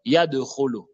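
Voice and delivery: Yadkhulu with a short echo after D; bouncing qalqala dal. Shown as a demonstration. Teacher repeating the drill, dal bounced. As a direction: bounce off the D into khulu. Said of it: "Le dal est une lettre col colon".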